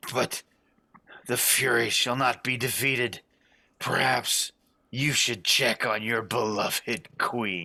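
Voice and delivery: sputtering, liquid-choked speech. A narrator voices one of the furies as she goes down, sputtering through blood. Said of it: "She sputters and blood comes up".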